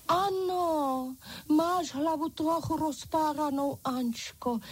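French doll's voice. A narrator's reading. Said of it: "a vytáhla špendlík".

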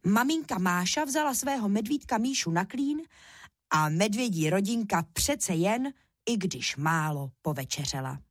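ordinary delivery

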